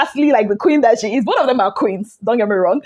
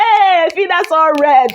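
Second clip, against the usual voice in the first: laughing exclamation; 3 semitones higher than usual. Real, not acted. Laughing while telling fight.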